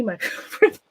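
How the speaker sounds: breathless and laughing; panting a little after work; out of breath. Real, not acted. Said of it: "I'm out of breath".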